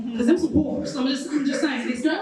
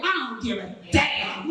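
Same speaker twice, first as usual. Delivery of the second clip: lower, unbothered don't-give-a-damn; 5 semitones lower than usual. Shown as a demonstration. Comic echoing her own line, lower and unbothered. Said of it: "The way you said it".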